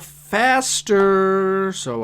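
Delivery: drawn-out, slow weary plea; impatient complaint. Real, not acted. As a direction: drag the words out, fed up. Groaning that the video drags on.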